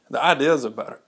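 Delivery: hiccuping mid-sentence; words broken by a hiccup. Real, not acted. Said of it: "I get the hiccups".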